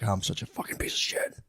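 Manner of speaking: whispered to yourself in shame; self-loathing whisper. Retold or imitated. Catching your own mind lying, whispered in shame. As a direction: hiss it under your breath. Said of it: "you're like".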